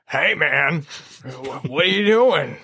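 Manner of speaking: half-hearted celebrity voice for a talking dog; badly faked accent, drawn-out question; Danny DeVito. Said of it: "I can't do a Danny DeVito accent".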